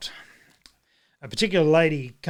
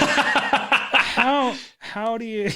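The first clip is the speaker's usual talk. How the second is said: high, amazed, louder stammer; stunned disbelief; 8 semitones higher, 4 dB louder, much slower than usual. Retold or imitated. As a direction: mind blown, can't get the words out. His mind was blown.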